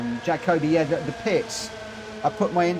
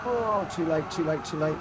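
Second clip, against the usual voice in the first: surprised exclamation; 4 semitones higher than usual. Real, not acted. Missing a turn in race.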